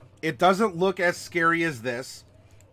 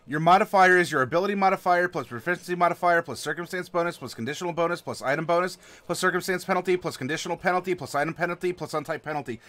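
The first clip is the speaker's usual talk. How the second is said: fast sarcastic rattle-off; rattled-off list; faster than usual. Shown as a demonstration. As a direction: rush through the formula deadpan. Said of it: "I'm being a little sarcastic".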